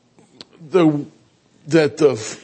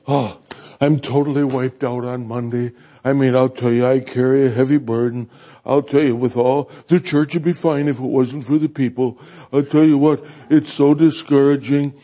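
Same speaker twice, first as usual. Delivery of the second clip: griping pastor; 3 semitones lower than usual. Retold or imitated. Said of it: "griping and complaining".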